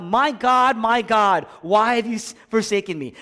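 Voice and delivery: high, loud cry of abandonment. Acted. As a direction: cry it out to God in anguish. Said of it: "Jesus Christ cries out".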